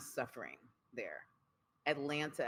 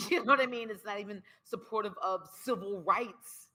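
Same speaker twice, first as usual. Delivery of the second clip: laughing; 8 semitones higher, 5 dB louder than usual. Real, not acted. Laughs at Trump remark.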